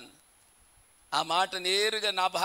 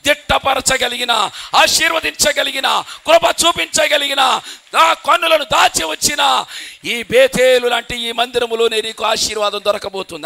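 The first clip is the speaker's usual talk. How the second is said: a rising, shouted preacher's lament, higher and much louder; preaching at full force; 4 semitones higher, 12 dB louder than usual. Real, not acted. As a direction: build the list to a full pulpit cry. Preacher builds to a shouting climax. (పూర్తి స్థాయిలో బిగ్గరగా ప్రసంగం)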